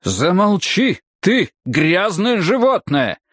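high, furious outburst; angry shout. Acted. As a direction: cut him off in a rage. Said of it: "перебил его Седжворт Прискет".

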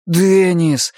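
drawn-out, high-pitched appeal; pleading. A narrator's reading. Arnie turning to his friend for help, pleading. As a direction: call the friend's name beseechingly. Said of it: "взмолился Арни".

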